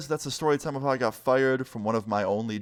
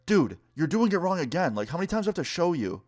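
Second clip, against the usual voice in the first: higher mock boss, exasperated, speeding up at the end; lightly voiced annoyed boss, pitched up; imitating the boss; 7 semitones higher than usual. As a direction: boss correcting every mistake, mock exasperated. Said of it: "he's like".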